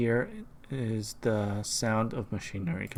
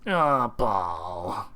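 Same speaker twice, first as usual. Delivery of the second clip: smoker woman voice. Acted. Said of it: "A nasal woman who sounds like a heavy smoker".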